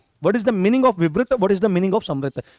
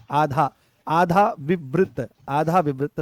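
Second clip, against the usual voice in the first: slow dictation; 3 semitones lower, much slower than usual. Shown as a demonstration. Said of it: "dictating term slowly".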